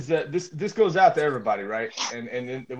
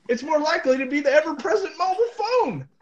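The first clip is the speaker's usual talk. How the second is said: laughing while reading; 11 semitones higher than usual. Real, not acted. Laughing through the article.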